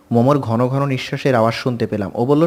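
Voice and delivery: ordinary delivery, nothing marked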